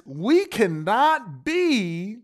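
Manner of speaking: slow whispered aside; slow preacher's whisper. Real, not acted. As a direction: drop to a whisper. Hushed aside in sermon.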